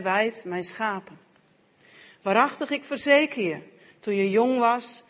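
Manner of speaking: measured, even Bible reading; scripture reading. Acted. Reader reading John 21 aloud to the congregation, measured scripture reading. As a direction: read the gospel passage aloud to the church.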